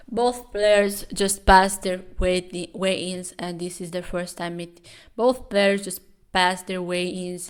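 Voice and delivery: lightly done ringside commentator; announcer voice. Acted. Vlogger narrating the weigh-in, lightly announcer-style. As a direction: call it like a fight commentator.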